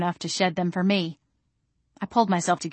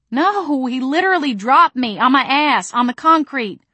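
high, loud, indignant correction; loud, swooping protest; exasperated wail; 7 semitones higher, 7 dB louder than usual. Acted. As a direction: wail it out, aggrieved. Wailed correction to friend.

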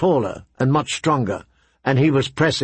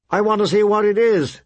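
lightly voiced prince, higher pitch; insistent young prince; 8 semitones higher than usual. A narrator's reading. Prince insists on following the sounds, insistent. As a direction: overrule her, a touch imperious. Prince overrules her wish to leave.

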